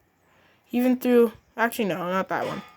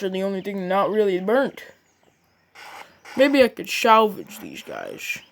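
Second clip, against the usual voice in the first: lightly voiced grumpy boss. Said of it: "he's like".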